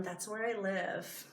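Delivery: choked up. Real, not acted. Vlogger moved by a farm down the road, softly choked up. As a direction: hold back tears as the words come. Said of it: "Why am I getting emotional".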